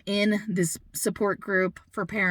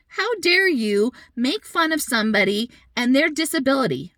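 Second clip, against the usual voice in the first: higher, emphatic retold rebuke; indignant scolding; 4 semitones higher than usual. Mother confronting stranger who mocked a disability, indignant scolding. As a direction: call them out, replaying your outrage.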